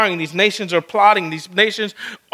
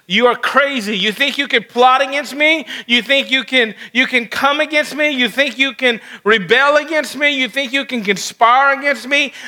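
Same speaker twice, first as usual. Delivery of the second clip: higher-pitched, incredulous rhetorical questions; mounting string of scornful questions, pitched up; indignant challenge; 6 semitones higher than usual. Acted. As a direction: challenge the rebels as an affronted God. Preacher voices God challenging rebels.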